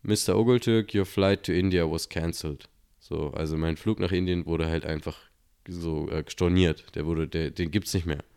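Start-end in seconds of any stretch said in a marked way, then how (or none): 0.0-2.7 announcement voice. Retold or imitated. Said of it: "so eine Stimme".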